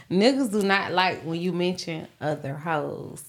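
Niggas do not like, said slowly, each word weighed; slow emphatic lecture. Shown as a demonstration. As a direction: spell out "do not" slowly like a teacher. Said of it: "Take y'all notebook out".

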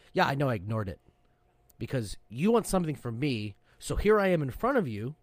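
mild mock yell, rising as it goes; retold yelling. Sailor confronting admin staff who ignored him, mild retold yell. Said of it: "and I yelled".

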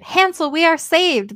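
joyful cry. A narrator's reading. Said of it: "and cried".

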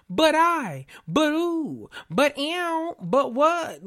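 high, exaggerated whiny protests; hammed-up high-pitched imitation of objections; mock excuse-making. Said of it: "It's always a".

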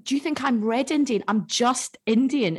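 disbelieving put-down; correcting a classmate, incredulous. Retold or imitated. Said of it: "I was like".

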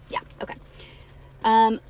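ordinary delivery

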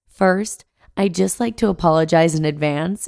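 blocked nose from a cold; stuffy nose, talking through a cold; congested. Real, not acted. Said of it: "I sound a bit congested".

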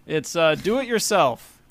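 lightly done robot voice. Pretend. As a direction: announce it like a robot. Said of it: "in my robot voice".

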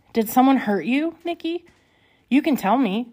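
gently probing, lightly voiced worry; concerned tone. A narrator's reading. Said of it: "in a concerned tone".

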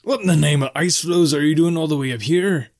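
high, swooping innkeeper's voice; lively, high-pitched tavern keeper; jovial barkeep, astonished. A narrator's reading. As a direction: marvel at the traveler, pitched well up.

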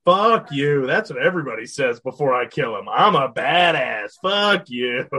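mock villain taunt. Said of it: "And he's like".

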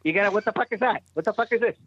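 lightly Boston, gruff; rough Boston guy talking; Boston accent. Retold or imitated. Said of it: "that Boston accent thing".

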